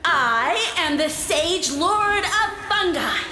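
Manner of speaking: grand proclamation. Acted. Mushroom lord proclaims his title.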